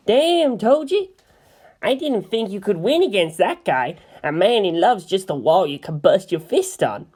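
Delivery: a wide-eyed friend marvelling; high geeky Kensuke. Acted. Friend marvels at the fight, excited and high.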